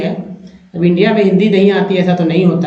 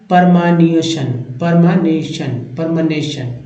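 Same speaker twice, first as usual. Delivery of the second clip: परमानेशन in a British English accent, repeated; English accent, say परमानेशन three times; English pronunciation; slower than usual. Shown as a demonstration. Teacher mimics how English people say परमानेशन, English accent. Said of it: "अंग्रेज लोग इसे बोलते हैं".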